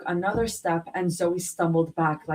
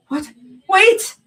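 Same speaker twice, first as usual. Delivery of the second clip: high, loud desperate cry; panicked shout; 9 dB louder than usual. A narrator's reading. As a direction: yell after the stretcher. Stretcher moving away.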